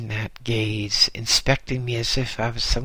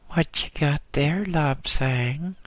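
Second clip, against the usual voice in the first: put-on higher, light child's voice; piping small voice; 4 semitones higher than usual. Small boy curious about the package, piping. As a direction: pipe it up like a small new boy. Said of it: "piped a small voice".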